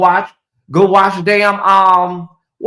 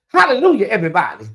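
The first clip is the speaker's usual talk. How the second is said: mock a preacher woman's twangy greeting; put-on church twang; 2 semitones higher, 4 dB louder, faster than usual. Mocking church women who talk with a twang. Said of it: "little twang in their voice".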